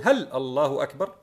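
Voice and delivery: "هل الله أكبر" put as a question; questioning tune. Retold or imitated. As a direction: ask "هل الله أكبر" with a rising end. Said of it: "وكأنه يقول". (نبرة استفهام في "هل الله أكبر")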